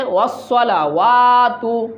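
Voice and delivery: ওয়াসসালাওয়াতু said whole, ending ওয়াতু kept; don't drop the ওয়াতু ending; full careful form. Shown as a demonstration. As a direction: complete ওয়াসসালাওয়াতু, every syllable said. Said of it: "অনেকে ওয়াসসালা বলে".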